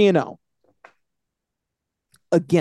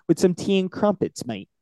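bad British accent; 3 semitones higher than usual. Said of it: "my accents are god-awful".

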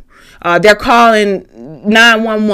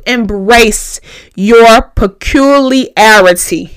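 slow careful word. Shown as a demonstration. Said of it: "I gotta say that word slow".

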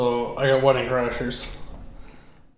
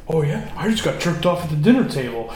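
mock-casual brag, breaking into laughter higher and louder; laughing through the quote; 5 semitones higher, 4 dB louder than usual. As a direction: play it cocky, but crack up as you say it. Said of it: "And he's like".

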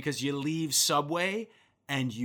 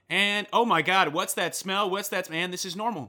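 nose noticing a smell; 7 semitones higher, 5 dB louder than usual. Retold or imitated. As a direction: play your nose going wow, what's that. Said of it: "your nose will just be like".

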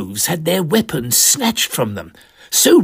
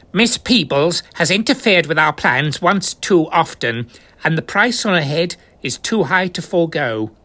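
lightly voiced cold agent; Cove voice; 3 semitones higher than usual. The Cove condemning Mavis, lightly voiced menace. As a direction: state the sentence with menace.

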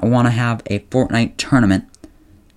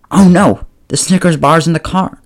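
oh no; 6 semitones higher, 3 dB louder than usual. Acted. Remembers candy in hot car.

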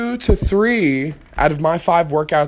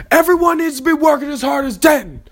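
a hint of a proud coach, pitched higher; coach's praise; 9 semitones higher than usual. Coach praising Denton to the whole team, lightly voiced. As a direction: announce it to the team like the coach would.

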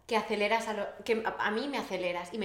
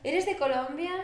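retold question; 6 semitones higher than usual. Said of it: "Y yo te pregunté".

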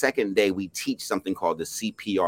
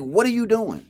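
imitating the woman, much higher and louder; woman's sharp question; 13 semitones higher, 5 dB louder than usual. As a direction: repeat her challenge with more bite. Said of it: "It was like".

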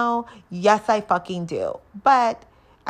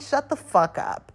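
slow, higher, dismissive put-down; annoyed retort; 6 semitones higher than usual. Retold or imitated. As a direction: drag it out, fed up with him. Snapping at drunk date.

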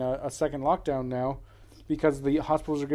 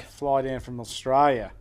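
put-on Aussie accent, drawn out at first; Australian accent; slower than usual. Shown as a demonstration. Cohost boasts he could pick up a girl, mock Australian accent. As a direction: show off a playful Australian accent. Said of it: "I do bloody good Australian accent".

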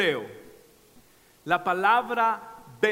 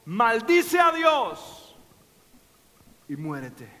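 mocking tempter; 3 dB louder, slower than usual. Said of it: "qué le dijeron a Job".

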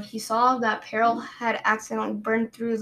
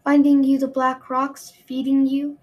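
loud domineering queen; 3 semitones higher, 5 dB louder than usual. Acted. Queen, louder.

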